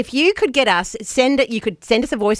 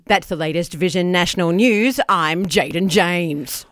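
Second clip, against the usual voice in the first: slow newsreader sign-off; news anchor voice; 4 semitones lower, slower than usual. Shown as a demonstration. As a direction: close the bulletin like an anchorman. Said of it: "in news anchor voice".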